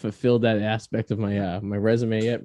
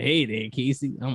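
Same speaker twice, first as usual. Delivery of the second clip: Southern accent; 3 dB quieter than usual. Shown as a demonstration. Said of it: "I can do a Southern accent".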